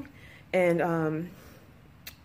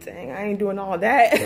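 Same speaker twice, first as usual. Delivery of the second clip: laughing; 4 dB louder than usual. Retold or imitated. Laughing at her own intimidation.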